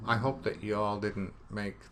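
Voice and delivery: folksy Southern twang on you all; southern accent. Pretend. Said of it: "that's my new southern accent".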